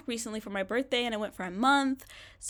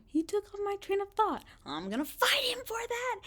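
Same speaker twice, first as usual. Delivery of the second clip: high, breathy playful whisper; mock whisper; 12 semitones higher than usual. Vlogger teasing her boyfriend after he interrupts, whispered. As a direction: whisper the threat like a joke.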